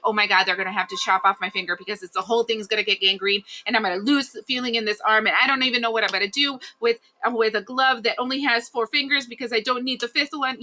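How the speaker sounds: hurried mock panic, pitch creeping up; mock catastrophizing. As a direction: spiral into a rushed, half-serious worst-case rant.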